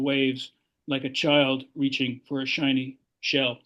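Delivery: measured, lingering poem recital; a poet performing his own verse at a reading; poetry reading. Acted. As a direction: read it aloud to an audience, savoring each image.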